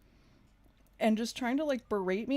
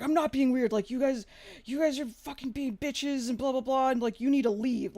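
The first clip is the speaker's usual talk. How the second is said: higher, louder imitation of an indignant guy; mock angry retort; 5 semitones higher, 4 dB louder than usual. Angry stranger tells her group to leave, mock indignant. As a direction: retell his rant with heated insistence.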